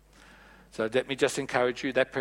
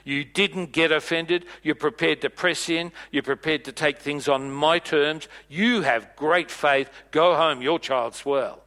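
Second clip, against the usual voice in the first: impressed Jesus; 4 dB louder than usual. Retold or imitated. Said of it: "And he says".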